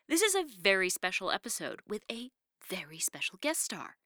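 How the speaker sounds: hushed, breathy build-up; whispering. Acted. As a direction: whisper it like a secret. Teasing the special guest.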